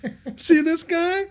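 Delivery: high, drawn-out mock "hey"; high, loud, goofy cheer; excited greeting. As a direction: call it out like hamming for a snapshot. Acts out family's thumbs-up photo pose.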